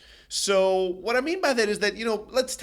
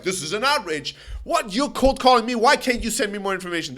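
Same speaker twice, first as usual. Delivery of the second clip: lightly voiced indignant prospect, a little louder; mock outrage; 3 semitones higher, 3 dB louder than usual. Cold-called prospect snapping at the salesperson, mock outrage. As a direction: play the offended prospect, half-hearted. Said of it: "They get pissed, they get angry".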